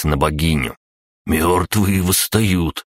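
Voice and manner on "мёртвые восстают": slow, awestruck babble; babbling in awe. Acted. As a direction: stammer it out, frozen with dread. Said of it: "пролепетал рыжий".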